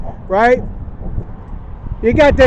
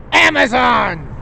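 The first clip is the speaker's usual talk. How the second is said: drawn-out, slower announcement of the answer; excited reveal; slower than usual. Real, not acted. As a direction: savour the reveal of "Amazon!" slowly. Reveal after "what's there now?.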